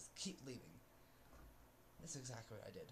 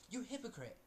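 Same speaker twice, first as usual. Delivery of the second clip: retold yell; 5 semitones higher than usual. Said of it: "I'm like".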